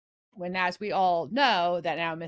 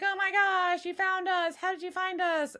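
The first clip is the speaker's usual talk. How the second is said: much higher, gushing mock excitement; hammed-up delighted surprise; excited; 13 semitones higher than usual. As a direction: squeal it like a thrilled fan. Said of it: "They're like".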